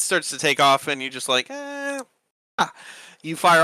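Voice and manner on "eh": high, soft drawn-out "eh"; little high-pitched effort noise; strained archer noise. Acted. Game master mimics an archer firing, high strained noise. Imitates archer loosing the arrow.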